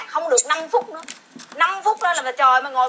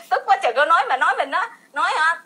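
laughing while venting; 4 semitones higher than usual. Real, not acted.

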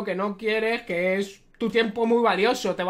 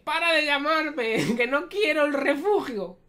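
laughing retold quote; 5 semitones higher than usual. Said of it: "le dice".

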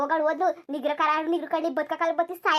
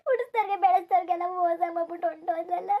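weeping. Acted. Mother weeps, daughter betrayed her.

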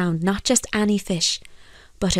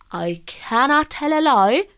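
lightly voiced, higher-pitched protest; earnest fisherman; 7 semitones higher, 3 dB louder than usual. A narrator's reading. Fisherman answers the priest honestly, earnest. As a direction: declare it with raised pitch. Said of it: "said Michael".

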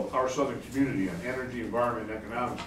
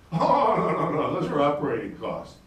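mock executive. Mocking the executive's brush-off, dismissive. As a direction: brush it off, half laughing. Mock utility vice president.

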